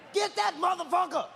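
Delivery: shouted police command; yelling. Retold or imitated. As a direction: bark it like a cop storming in.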